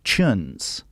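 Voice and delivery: "chuns", tunes in a Scottish accent. Shown as a demonstration. Alan McGee's Scottish "chuns" for tunes. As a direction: say "chuns" with a ch sound for the t. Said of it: "It would come out like".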